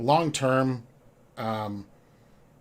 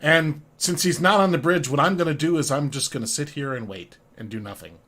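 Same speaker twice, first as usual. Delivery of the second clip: mock film character; 3 semitones higher, 4 dB louder than usual. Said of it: "that bit where she goes".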